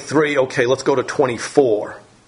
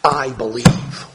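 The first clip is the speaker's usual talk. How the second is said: tearful plea; much slower than usual. Retold or imitated. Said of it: "So he's in tears, and he says".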